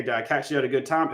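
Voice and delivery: quick, offhand question as if chatting; casual conversation. Shown as a demonstration. Caller asking a homeowner casually, not like reading a script. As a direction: toss it out like ordinary talk, not a script. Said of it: "sounds like you're having a conversation".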